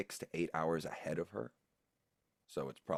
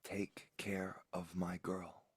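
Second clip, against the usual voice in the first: tender whisper; slower than usual. Acted. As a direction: whisper it gently, like a plea.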